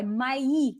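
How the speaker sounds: мои as two syllables, ma-EE; careful demonstration of мои, ma-EE; two-syllable pronunciation. Shown as a demonstration. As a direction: give мои both syllables, stressing the second. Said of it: "two syllables".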